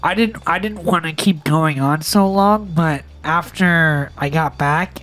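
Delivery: talking with pinched nose; nose held shut while talking; nose plugged. Real, not acted. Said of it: "you can let go of your nose".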